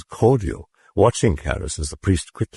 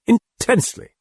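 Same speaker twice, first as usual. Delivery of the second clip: demon relish. A narrator's reading. The demon answering Karras, relishing it. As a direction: savor the word like a demon.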